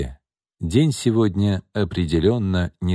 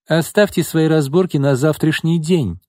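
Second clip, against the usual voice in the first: higher, commanding call to order; imperious, high-pitched order; raised voice; 8 semitones higher, 4 dB louder than usual. A narrator's reading. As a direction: raise your voice to shut down the squabble. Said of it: "повысила голос Изольда".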